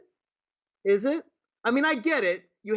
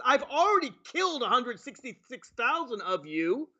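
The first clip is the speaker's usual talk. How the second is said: mock president; 4 semitones higher than usual. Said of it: "our president says".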